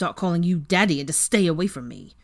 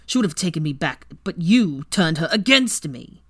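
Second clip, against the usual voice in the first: louder, resentful rant; Weasley accuses Draco, bitter and loud; bitter accusation; 4 dB louder than usual. Acted. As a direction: pour out the grievance, rising in anger.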